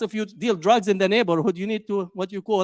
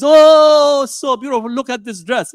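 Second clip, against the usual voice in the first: mock gushing fan; 6 dB louder than usual. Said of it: "watch the royal family".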